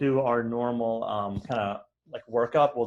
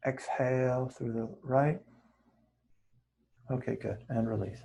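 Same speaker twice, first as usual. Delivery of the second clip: soft, brief cues between long silences; quietly pace each breath, a touch of meditation voice; guided breathing; 6 semitones lower, 5 dB quieter than usual. Real, not acted. Teacher counting students through nostril breathing, soft meditation guiding.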